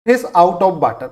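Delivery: each word of "fish out of water" drawn out slowly; slow, deliberate dictation; slow headword. Shown as a demonstration. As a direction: announce the idiom slowly so students catch it. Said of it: "next".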